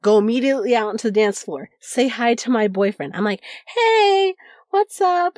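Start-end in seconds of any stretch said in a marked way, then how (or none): 3.8-5.4 much higher, louder bright hello; excited greeting. Retold or imitated. Greeting her rave boyfriend on the dance floor, excited and high. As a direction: call out hi to him, thrilled to see him.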